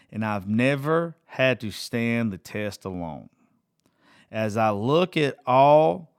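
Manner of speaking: slow, earnest reading of song lyrics. Acted. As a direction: read each lyric line slowly, letting it sink in. Reads song lyrics aloud.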